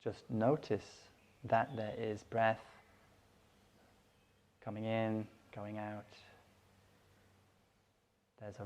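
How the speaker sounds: calm, unhurried meditation guidance with long pauses; guided meditation. Real, not acted. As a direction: settle them gently into stillness, phrase by phrase.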